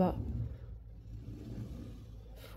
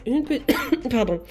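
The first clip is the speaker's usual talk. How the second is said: coughing. Real, not acted. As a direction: voice interrupted by a real cough. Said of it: "je tousse encore un peu". (toux en parlant)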